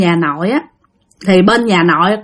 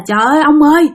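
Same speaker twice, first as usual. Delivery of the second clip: mother's higher-pitched, alarmed protest; acted outcry, pitched up; retold crying out; 6 semitones higher than usual. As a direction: cry out to stop him, acting the upset mother. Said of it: "mẹ mới la làng lên".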